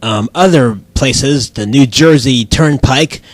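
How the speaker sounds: low-pitched traffic bulletin read; radio traffic report. Pretend. Traffic reporter to the host, radio traffic report. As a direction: report the roads low and matter-of-fact.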